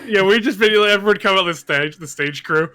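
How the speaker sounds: high, loud burst of excitement; excited shout. Real, not acted.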